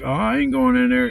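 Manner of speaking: high, loud protesting imitation; mock whiny refusal. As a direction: squawk like a drunk balking at arrest. Imitates drunk refusing police car.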